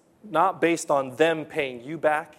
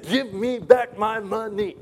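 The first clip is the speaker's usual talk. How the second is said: loud, higher mock throttling demand; hammed-up angry creditor; mock choking demand; 7 semitones higher, 3 dB louder than usual. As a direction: act out the grab, loud and high. Preacher acts out choking scene.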